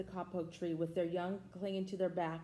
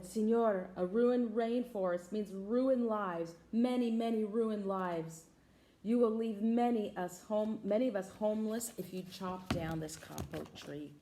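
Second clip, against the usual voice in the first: squeaky frog; 2 semitones higher than usual. Acted. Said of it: "In a squeaky voice".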